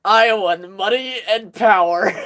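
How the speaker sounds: slow, lightly imitated dazed line; blank staring. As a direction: draw it out like someone staring off. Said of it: "He just, like, stares off into nothing".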